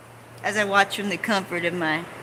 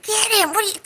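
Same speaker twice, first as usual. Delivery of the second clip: cheering shout; 13 semitones higher, 4 dB louder, faster than usual. Retold or imitated. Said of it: "it's like".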